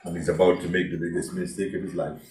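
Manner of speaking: mistake of his life, low and soft; somber aside. Real, not acted. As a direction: drop it low, heavy and grave. Preacher repeats, subdued.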